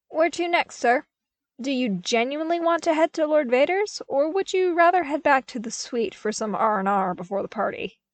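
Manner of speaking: brisk eager soldier question; eager trooper. A narrator's reading. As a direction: ask your commander keenly. Trooper asking commander politely.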